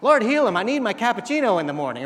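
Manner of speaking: loud, high, hammed-up begging for coffee; mock desperate plea. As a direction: cry out to the Lord as if the coffee depends on it. Mock prayer over a cappuccino.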